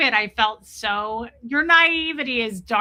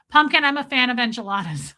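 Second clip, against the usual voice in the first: whisper; 4 dB louder than usual. Retold or imitated. Whispered quote of the joke.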